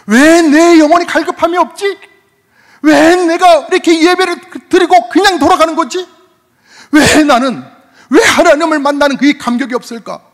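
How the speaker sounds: high, loud pleading questions; impassioned preaching. Acted. Pastor challenging the congregation's cold souls, loud and high. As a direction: cry out to stir the congregation.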